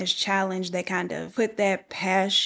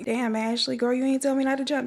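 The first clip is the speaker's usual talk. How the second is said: mock reproach; 4 semitones higher than usual. Real, not acted.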